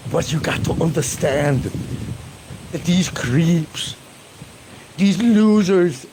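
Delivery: slow and rising into a mock rant; mock impression of the friend ranting about creeps; imitating Aloe. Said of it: "I've heard you say that".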